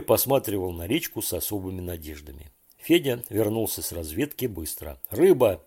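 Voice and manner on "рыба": loud fish-news shout, voice falling; shout from afar. A narrator's reading. Fedya shouting the news from afar, loud excited call. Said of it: "ещё издали закричал он".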